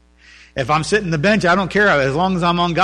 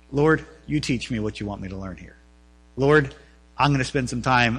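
humble prayer; 2 semitones lower than usual. Retold or imitated. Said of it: "you gotta be like".

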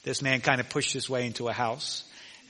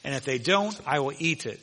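boastful salesman; 5 semitones higher, 9 dB louder than usual. Retold or imitated. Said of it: "And the guy says".

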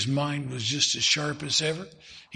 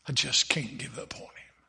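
tearful whisper; 4 dB quieter than usual. Retold or imitated. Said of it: "tears running down his cheeks".

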